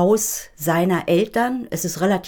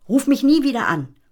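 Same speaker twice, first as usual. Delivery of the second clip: higher and louder, nie punched; stress on nie; 7 semitones higher, 5 dB louder than usual. A narrator's reading. Gitti demonstrates the angry line for the child. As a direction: hit nie hard and high. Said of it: "Und jetzt ganz leise und böse".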